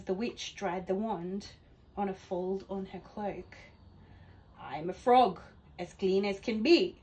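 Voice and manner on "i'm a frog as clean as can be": a hint of a frog's croak; croaky frog. Frog asking the witch for a ride, lightly croaking. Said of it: "said with a croak".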